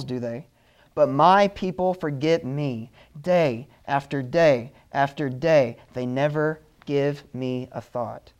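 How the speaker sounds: slow, pleading scripture reading; hurt God reading scripture. Retold or imitated. Preacher reading God's lament to the church, slow and pleading. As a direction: read it as God's wounded heart. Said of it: "He says, I want to read this to you".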